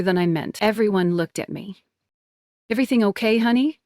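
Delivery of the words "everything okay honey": high, sweet motherly concern; talking to a hurt kid. Acted. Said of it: "her head tilted like I was a kid".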